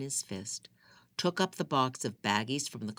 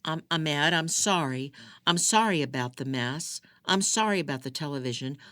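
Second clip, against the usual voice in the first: pleading apology; 4 semitones higher, 5 dB louder than usual. Acted. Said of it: "Appealing to him through the door".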